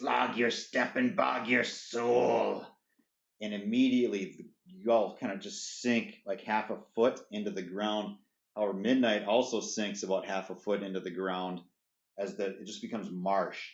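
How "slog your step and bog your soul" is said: slow, rough, croaking goblin voice, soul stretched out. Narrator voices the goblin speaking to the players, in Jackie Lazarus goblin voice. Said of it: "that goblin's voice".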